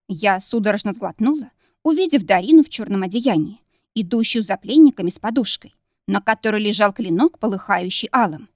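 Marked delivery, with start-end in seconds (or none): none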